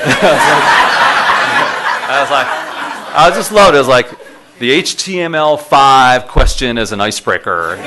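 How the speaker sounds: amused, laughing at the memory; laughing while talking. Real, not acted. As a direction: talk through the laughter.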